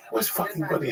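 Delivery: mock gruff shout of Where's fucking Buddy, pitched high; hammed-up angry pizza man calling out; mock gruff yell. Pizza man asks where Buddy went, mock angry yell. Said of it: "he'd go".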